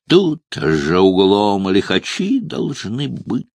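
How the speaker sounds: talking round a cigar clenched in teeth; slow words round a cigar. Acted. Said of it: "прокартавил Ахтырцев с зажатой в зубах сигарой".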